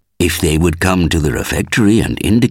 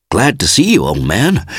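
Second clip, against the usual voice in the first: awkward greeting; 6 semitones higher than usual. Acted. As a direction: greet an old friend with uneasy heartiness. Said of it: "somewhat awkwardly".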